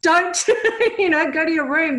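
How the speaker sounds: a loud half-laughing parental order; mock strict parent. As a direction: play the old-school stern parent. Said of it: "It's like".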